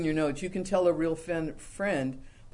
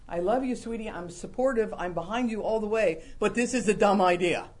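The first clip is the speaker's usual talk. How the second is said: gentle loving advice; 3 semitones higher, 3 dB louder than usual. Retold or imitated. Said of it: "need to be told".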